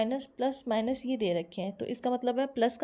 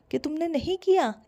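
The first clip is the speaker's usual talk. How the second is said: higher, pointed accusation; accusing tone; 4 semitones higher, 4 dB louder than usual. Shown as a demonstration. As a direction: press the accusation home. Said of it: "tone change करके बोलोगे ना".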